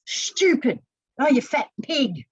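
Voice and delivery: mildly harsh imitation of self-scolding; lightly acted name-calling at oneself; mock self-abuse. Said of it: "verbally abusing themselves".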